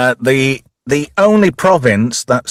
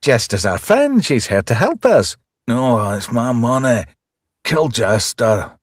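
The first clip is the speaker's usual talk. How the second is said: put-on Scottish accent. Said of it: "explain these Scottish references to me".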